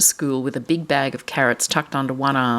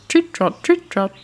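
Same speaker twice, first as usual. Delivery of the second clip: hoof sound; 13 semitones higher than usual. Shown as a demonstration. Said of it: "Can you make that noise?".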